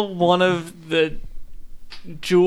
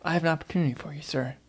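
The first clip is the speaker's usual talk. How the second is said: smooth salesman pitch; 7 dB quieter, much faster than usual. Acted. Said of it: "walk in front of them and say".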